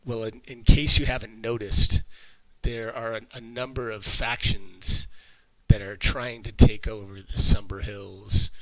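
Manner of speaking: lightly voiced cultist explaining himself; captured cultist. Captive cultist explaining the factions, lightly voiced and halting.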